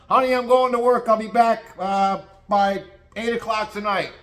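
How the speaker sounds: high put-on husband voice; high, sing-song domestic parody; cheery husband. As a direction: call out a mock-breezy goodbye. Plays husband leaving home.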